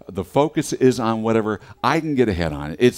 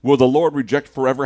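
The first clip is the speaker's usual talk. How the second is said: mild lament; 3 semitones higher, 7 dB louder than usual. Shown as a demonstration. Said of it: "You're gonna get this really quickly".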